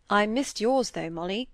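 lightly voiced young man, understated kindness; kindly. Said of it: "said he kindly".

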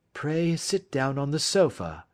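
gentle. A narrator's reading. Detective receiving a sick old visitor, gentle. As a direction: offer it courteously, a touch gently. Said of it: "said Holmes gently".

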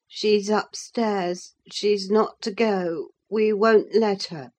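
slow, petulant hint of a sickly youth; lightly voiced sulky boy. Linton to Nelly, slow sulky refusal. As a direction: drag it out like a spoiled invalid.

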